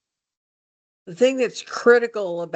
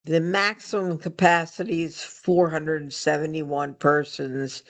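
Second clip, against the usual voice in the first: slight lisp from a missing tooth; lisping on the s sounds. Real, not acted. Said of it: "please excuse my lisping".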